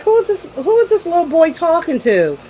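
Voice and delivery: high, mock-offended who-is-this; incredulous retort. Mom scoffing at her daughter's boyfriend, incredulous and high. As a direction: pitch it up, scoffing in disbelief. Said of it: "And I looked at him like".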